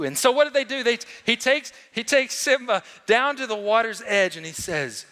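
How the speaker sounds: ordinary talk, nothing marked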